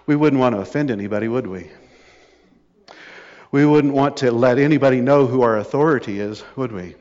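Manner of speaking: mock-polite, with a falling tag question; dry cynical mockery, dropping away at the end. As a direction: sarcastically pose as anxious to please. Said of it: "Sorry for my cynicism".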